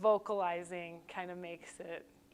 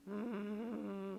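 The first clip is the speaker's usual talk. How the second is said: hum on the exhale; 3 dB quieter than usual. Shown as a demonstration. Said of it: "So I can".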